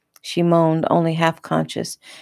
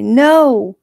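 high, loud protesting cry; panicked refusal; 8 semitones higher, 8 dB louder than usual. A narrator's reading. Victim scrambling away from the officer, panicked shout.

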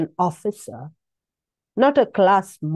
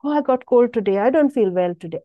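mock complaining; faster than usual. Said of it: "Don't say".

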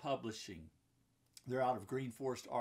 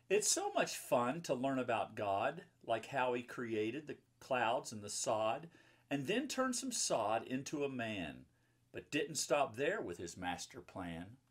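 lively rhyming read-aloud, a bit louder; reading to children; 4 dB louder than usual. A narrator's reading. Mom reading a Bible picture book to children, lively rhyming read-aloud. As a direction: bounce the rhymes for the kids.

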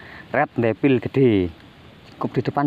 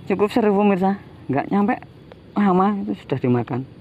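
excited; 8 semitones higher than usual. Real, not acted. Bait eaten fast, thrilled.

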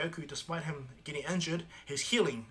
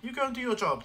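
cheerful Goku; 9 semitones higher, 6 dB louder than usual. Retold or imitated. Goku cheerfully sends Nappa off.

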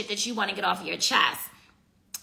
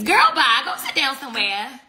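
louder, sassy and dismissive; sassy brush-off; 2 semitones higher, 4 dB louder than usual. Real, not acted. Brushing off a viewer's comment, sassy and dismissive. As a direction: wave the viewer off with attitude.

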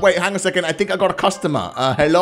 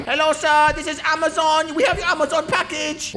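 delivery man voice; 9 semitones higher than usual. Pretend.

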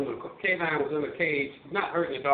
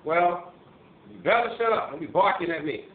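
scolding the dog; 2 semitones higher, 3 dB louder than usual. Retold or imitated. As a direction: shoo the barking dog off, raised voice. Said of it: "pointing the cane at the dog".

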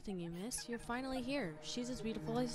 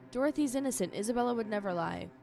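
pleading; 3 semitones higher, 7 dB louder than usual. Acted. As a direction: beg them to believe her. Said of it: "pleaded Giletta".

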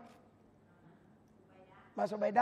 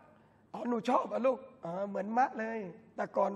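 slow, soft lightly voiced mom; gentle mother's reply; 3 semitones lower, 4 dB quieter, slower than usual. Preacher voicing a mother calmly answering her daughter. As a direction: reassure the daughter tenderly and slowly. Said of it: "บอกว่า".

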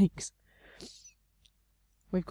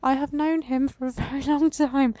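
high, strange newsreader tone; the tree talking about Shadrach; newsreader-ish tree; 6 semitones higher, 4 dB louder than usual. Acted. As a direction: speak as the old tree like a newsreader. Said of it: "sounding a bit like".

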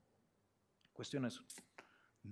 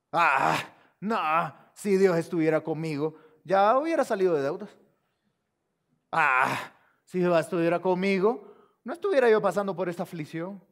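loud imitation of doubters' grumbling; mock complaining; 6 dB louder than usual. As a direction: open on a big exaggerated "ah", then complain. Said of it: "personas que cuestionan a Dios y dicen".

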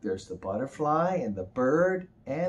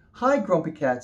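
butterfly voice; 5 semitones higher, 3 dB louder than usual. Acted. Butterfly greets Grumpy Cat.

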